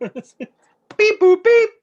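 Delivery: high beeping computer voice; robot voice. Pretend. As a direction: beep like a calculating robot. Computing the math, robot noises.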